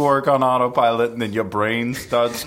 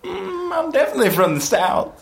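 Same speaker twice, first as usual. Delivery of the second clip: put-on Southern accent; 6 semitones higher, faster than usual. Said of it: "are you like a peanut farm heiress".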